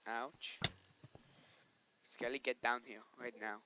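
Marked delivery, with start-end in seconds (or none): 2.0-3.6 louder mock challenge; taunting challenge. Real, not acted. To the skeleton mob, a loud mock taunting challenge. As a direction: call the skeleton out to a duel.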